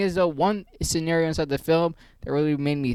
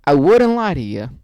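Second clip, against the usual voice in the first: loud insistence; 6 dB louder than usual. Real, not acted. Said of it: "One more time for the boys".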